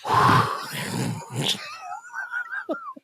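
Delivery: high screaming cackle; shrieking laugh. Real, not acted.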